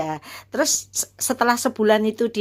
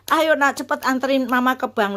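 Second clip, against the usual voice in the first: retold urgent plea; 5 semitones higher than usual. Urges son to drive her.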